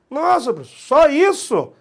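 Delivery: espanto encenado, agudo e alto; aluno espantado. Acted. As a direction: imite um aluno surpreso, voz lá em cima. Aluno fictício espantado com facilidade. (aluno espantado, agudo e exagerado)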